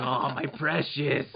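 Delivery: slow, drawn-out creature voice; Gollum. Retold or imitated. Dad likening his hiding toddler to Gollum, lightly voiced Gollum. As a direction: lightly imitate a creature coveting treasure. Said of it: "like Gollum with the ring".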